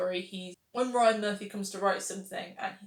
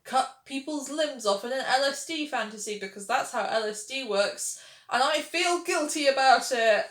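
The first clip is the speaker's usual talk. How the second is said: stilted doctor parody; 4 semitones higher, 3 dB louder than usual. Retold or imitated. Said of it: "Everyone's just like".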